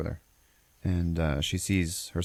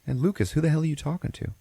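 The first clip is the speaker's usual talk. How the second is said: lightly voiced mom, pitched up; retold motherly demand in a higher voice; mother's sharp question; 9 semitones higher, faster than usual. Mom finds son talking to nobody, mock demanding question.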